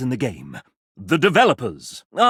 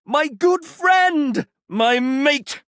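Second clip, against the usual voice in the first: big hearty greeting; 11 semitones higher, much slower than usual. Acted. Mascot shouting a slow delighted greeting to the player. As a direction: call out across the room to an old pal.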